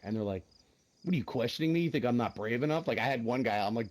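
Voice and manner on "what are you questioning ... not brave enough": louder, higher mock indignation; acted-out offended bravado; indignant retort. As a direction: retell it as an affronted challenge. Retelling an indignant player's challenge.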